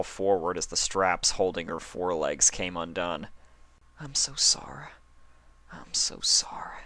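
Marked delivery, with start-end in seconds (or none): 4.0-6.8 unvoiced, remorseful whisper. Applejack whispers her apology while hugging Dash, remorseful. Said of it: "Applejack whispered".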